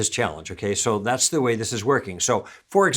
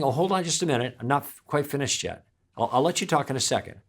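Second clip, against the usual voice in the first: softer, easy and friendly; simple friendly ask; 5 dB quieter, faster than usual. Shown as a demonstration. To an interrupting steamroller, soft friendly pause. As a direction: let them down gently, smiling. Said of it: "You just do that simple thing".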